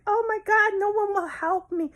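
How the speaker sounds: very high, slow, sobbing plea; crying job seeker. Acted. Jobless woman begging for work, high and sobbing. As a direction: wail it out like a desperate beggar. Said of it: "when you're crying".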